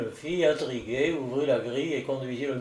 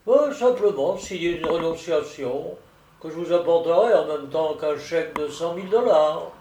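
lightly voiced, emphatic solicitor; solicitor explaining; 3 semitones higher, 4 dB louder than usual. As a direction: lay out the family tree name by name. (solliciteur qui expose, légèrement joué)

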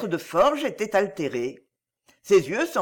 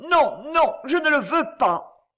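higher, louder furious refusal; furious obstinacy; 7 semitones higher, 4 dB louder than usual. A narrator's reading. Wife refusing her husband, furious and higher. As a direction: stamp it out, no give at all. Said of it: "avec une obstination furieuse".

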